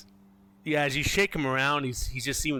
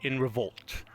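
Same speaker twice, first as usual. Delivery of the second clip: game master narration. A narrator's reading. Game master explains the church's history, storytelling narration. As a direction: tell the backstory with weighted pauses.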